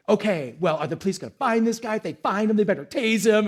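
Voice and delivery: a touch of irritated grumbling; mock-grumble about the thief; mild frustration. Pastor stewing over his stolen chainsaw, mild irritated grumble. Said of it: "I started to get frustrated".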